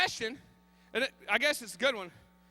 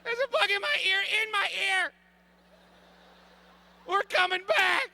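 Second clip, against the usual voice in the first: higher, louder radio call to Terry; calling Terry on the radio about the bug; frantic radio call; 5 semitones higher, 3 dB louder than usual. Retold or imitated. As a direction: yell into the walkie-talkie in a panic. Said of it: "we walkie-talkie back to Terry".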